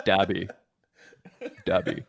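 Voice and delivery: "Dabby" softly with a plain d; D pronunciation. Shown as a demonstration. Correcting friend's Jabby, "Dabby" with a soft-spoken D. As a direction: say "Dabby" quietly, d instead of j.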